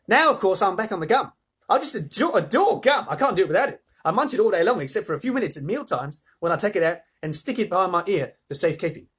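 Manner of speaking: put-on high, excitable Australian girl; Australian gum-chewer. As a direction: chatter boastfully in an Australian accent. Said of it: "in an Australian accent".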